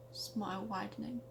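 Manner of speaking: hammed-up storyteller narration; dramatic story reading. Reading her childhood story aloud, dramatic narrator voice. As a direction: read it like a spooky tale by the fire. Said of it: "my best attempt at dramatically reading a story".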